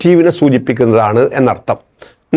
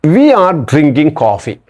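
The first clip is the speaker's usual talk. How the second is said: slow dictation; much slower than usual. Shown as a demonstration. Teacher reads example slowly.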